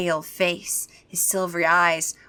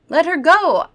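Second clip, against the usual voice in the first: pleading; 9 semitones higher, 6 dB louder than usual. Acted. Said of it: "I pleaded".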